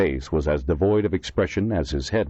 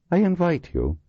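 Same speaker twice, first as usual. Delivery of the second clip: put-on higher, courteous invitation in a Dublin accent; pleasant; 12 semitones higher than usual. A narrator's reading. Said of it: "he said pleasantly".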